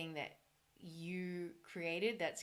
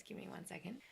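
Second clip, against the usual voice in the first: whispered because voice is failing; breathy whisper, losing voice; whisper, voice gone; 6 dB quieter, faster than usual. Real, not acted. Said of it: "I'm just losing my voice".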